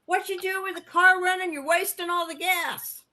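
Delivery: high, loud scolding husband voice; imitating husband. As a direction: mimic the husband's nagging. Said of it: "he said".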